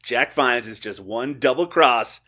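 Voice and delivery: light radio countdown host impression; a hint of syndicated radio presenter; Casey Kasem. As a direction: read it like a countdown announcer, stressing key phrases. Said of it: "I was doing my Casey Kasem".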